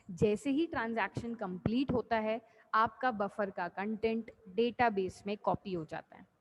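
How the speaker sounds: measured, unhurried teacher's re-explanation; slowed-down explanation. Real, not acted. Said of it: "तो धीरे धीरे बोल देते हैं वापस से".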